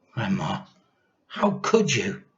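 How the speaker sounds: put-on a small boy protesting; whiny boy. A narrator's reading.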